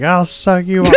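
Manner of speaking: shouted mocking line; loud quote. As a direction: bark it out loud. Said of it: "you were like".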